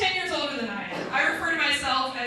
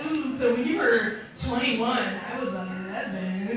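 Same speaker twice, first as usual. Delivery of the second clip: teasing math; 3 semitones lower, slower than usual. Retold or imitated. Doing age math at him, slow sly tease. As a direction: drop low and slow to twist the knife. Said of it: "and be like".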